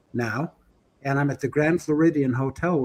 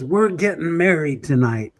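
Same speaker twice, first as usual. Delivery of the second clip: mock drunk voice. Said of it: "That's why I'm using that voice".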